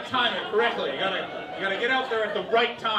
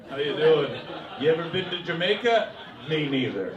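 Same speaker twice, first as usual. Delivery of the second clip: pub bore; 2 semitones lower, 5 dB louder than usual. Pretend. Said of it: "one of those guys that just walks up to strangers".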